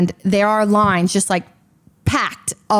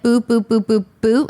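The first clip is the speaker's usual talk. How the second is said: mock queue sounds. Shown as a demonstration. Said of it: "to visualize it".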